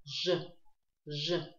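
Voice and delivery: «ж» with rounded lips. Shown as a demonstration. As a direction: say each «ж» apart through rounded lips. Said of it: "нужно округлить губы".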